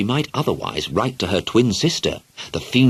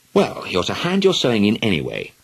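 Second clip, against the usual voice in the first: bossy; 3 semitones higher than usual. Acted. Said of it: "giving up argument and becoming bossy".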